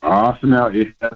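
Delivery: choppy call audio; cutting out on the phone; breaking up phone line. Real, not acted. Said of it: "You're breaking up".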